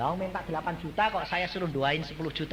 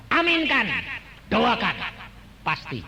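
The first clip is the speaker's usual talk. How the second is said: high ringing call of Aminkan; God's voice, proclaimed; 5 semitones higher, 5 dB louder than usual. Retold or imitated. Preacher voicing God telling him to pray, loud proclaiming call. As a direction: proclaim it loudly as God's command. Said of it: "Tapi Allah berkata".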